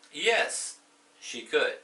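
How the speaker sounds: high, loud excited yes. Acted. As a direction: cheer the answer. Teacher acts cheerful yes answer.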